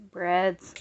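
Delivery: words squeezed out mid-stretch; straining while reaching. Real, not acted. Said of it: "I'm reaching up here".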